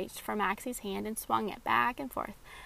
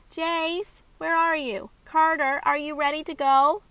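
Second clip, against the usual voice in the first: high, loud calls to her brothers; yelling across the house; 5 semitones higher, 9 dB louder than usual. Acted. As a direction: yell for the boys from the door. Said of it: "You don't have to yell at me".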